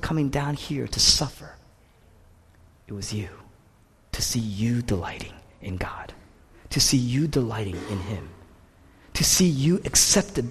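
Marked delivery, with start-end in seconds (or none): 2.9-8.3 hushed, unvoiced and tender; soft intimate whisper. Real, not acted. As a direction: breathe it to the listener. Tender climax of sermon.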